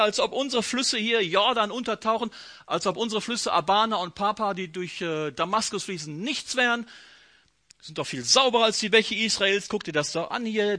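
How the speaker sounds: a hint of Naaman grumbling angrily; mock ranting. Naaman scolding about Israel's dirty rivers, mild mock rant. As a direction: grouse like an offended nobleman. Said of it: "schimpft er weiter".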